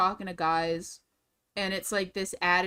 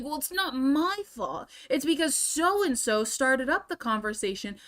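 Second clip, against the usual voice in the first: mock excuse; 4 semitones higher than usual. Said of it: "And I'm like".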